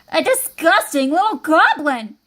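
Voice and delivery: slow, emphatic revulsion; disgusted cry. Acted. Innkeeper reacting to Goblin in the inn, slow disgusted cry. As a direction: stretch it out with disgust. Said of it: "cried the innkeeper".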